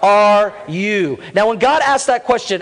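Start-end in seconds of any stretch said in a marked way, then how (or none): 0.0-1.2 slow drawn-out call for the congregation to echo. Shown as a demonstration. Preacher leading the congregation, slow echoed call. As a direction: model it slowly for everyone to repeat. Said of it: "Everybody say that".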